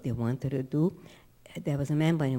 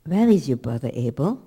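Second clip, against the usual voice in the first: God; 2 semitones lower, 8 dB louder than usual. Retold or imitated. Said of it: "God says to Cain".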